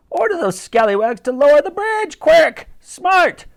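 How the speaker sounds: high, loud naval command; barked order. A narrator's reading. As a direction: snap it out like an old admiral. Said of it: "ordered the Admiral".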